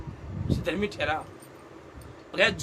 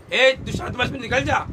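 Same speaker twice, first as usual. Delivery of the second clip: acted firm exorcism order; rebuking command; 2 semitones higher than usual. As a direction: command the evil spirit out firmly. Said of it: "ऐसे नहीं कहा". (डांटकर अधिकार से)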